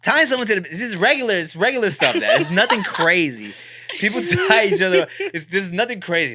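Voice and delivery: defensive protest. Retold or imitated. Son explaining tying up to his dad, defensive protest. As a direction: play it down, a touch exasperated.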